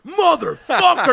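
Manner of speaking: loud, drawn-out high yell of motherfucker; retold shout. Friend telling how he yelled at a stranger, loud slow yell. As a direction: bellow it at the guy you grabbed. Grabbing the guy in the smoke.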